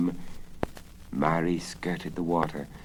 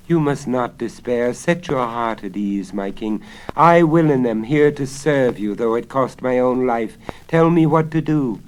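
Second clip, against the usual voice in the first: fawning wizard; 7 semitones higher, 11 dB louder than usual. Acted. The wizard flatters the king.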